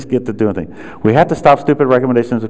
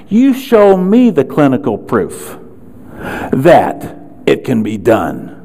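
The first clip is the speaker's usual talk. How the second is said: defiant challenge; slower than usual. Real, not acted. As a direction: throw the demand back at them. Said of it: "let me tell you what I did".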